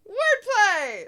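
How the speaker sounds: high, loud cry of delight; gleeful exclamation. Real, not acted. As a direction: crow it out like scoring a point. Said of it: "exclaiming at the pun".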